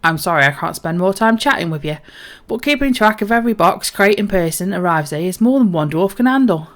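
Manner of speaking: busy dwarf, lightly northern; lively, lightly voiced northern dwarf; Dockmaster Woolen. Dwarf dockmaster apologises for being too busy to chat, lightly voiced. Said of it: "go a little bit more northern".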